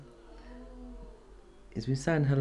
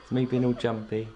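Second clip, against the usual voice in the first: amused laugh. Real, not acted. Laughs at own startle.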